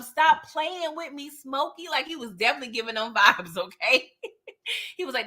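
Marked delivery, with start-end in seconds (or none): 0.0-1.9 mock slow warning. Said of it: "He was definitely on some".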